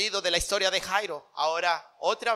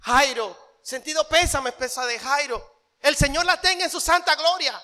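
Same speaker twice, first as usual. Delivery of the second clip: mock mourners' condolences, pitched up; hammed-up false pity; gossiping mourner faking grief; fake tears; 6 semitones higher than usual. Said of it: "algunos fingían lágrimas".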